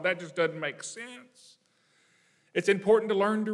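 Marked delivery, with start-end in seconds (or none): 0.0-1.6 put-on puzzled child. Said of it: "and I thought".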